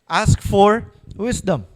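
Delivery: "Ask for wisdom" said slowly, word by word; slow repeat. Shown as a demonstration. Preacher repeating the answer to the congregation, slowly. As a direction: let "Ask for wisdom" sink in, drawn out slowly.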